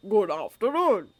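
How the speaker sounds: put-on slow, pleasant old wizard's voice. A narrator's reading. Dumbledore greeting the students at the door, slow and pleasant. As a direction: greet them kindly and slowly. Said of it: "he said pleasantly".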